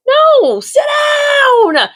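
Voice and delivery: a sharp comic rebuke; firm command. Pretend. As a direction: order her to sit down, hard. Telling Haley to calm down.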